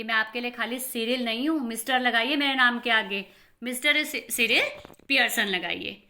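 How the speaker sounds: a sulky son insisting on Mister, loud and indignant; sulky glaring. Acted. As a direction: demand the title, offended. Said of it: "सल्की and ग्लोरिंग".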